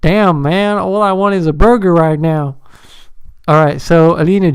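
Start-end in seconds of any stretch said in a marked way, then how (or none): 0.0-2.6 put-on Texan accent; Texas accent. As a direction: play at being a Texan. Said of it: "Do a Texas accent".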